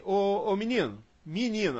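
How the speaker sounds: Bahian accent, menino said as minino with a closed i. Shown as a demonstration. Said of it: "Aqui vai falar em".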